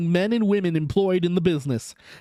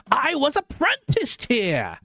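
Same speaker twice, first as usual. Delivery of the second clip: put-on much higher, slow old Scrooge voice; Scrooge recognizing; 10 semitones higher than usual. A narrator's reading. Scrooge telling the ghost he was apprenticed here, high and slow. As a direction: marvel slowly at the old place.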